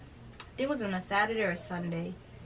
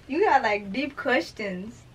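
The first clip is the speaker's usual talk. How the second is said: teasing disbelief; 5 semitones higher, 7 dB louder, slower than usual. Real, not acted. Teasing about the deep question.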